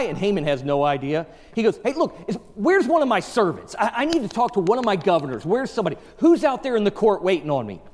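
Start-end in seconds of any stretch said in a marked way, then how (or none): 1.8-7.8 hurried king. Retold or imitated. King calling for servants.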